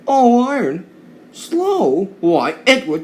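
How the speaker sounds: high, loud, indignant outcry; outraged on a friend's behalf, voice shooting up. Acted. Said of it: "Thomas and Percy were indignant".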